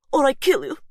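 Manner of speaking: put-on high, loud accented threat. Gabriella threatens to kill Faith, loud and accented. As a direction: threaten her with the knife.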